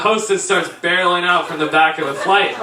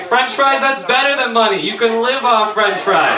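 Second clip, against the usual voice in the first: excited student; 3 semitones higher than usual. Retold or imitated. Student hears of free fries, mock excitement. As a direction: talk up the free fries, stretching the ending. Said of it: "He's like".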